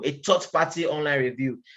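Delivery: "third" pressed hardest in "a third party online review"; stress on third party. Shown as a demonstration. Coach stressing "third party" to new traders, emphatic. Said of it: "I'm emphasizing on the word third party".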